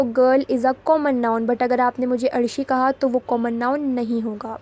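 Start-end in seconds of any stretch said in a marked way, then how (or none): 0.0-1.5 slow, stressing each word; slow, deliberate. Shown as a demonstration. Teacher stating the rule to students, slow and deliberate. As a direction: lay the rule out slowly.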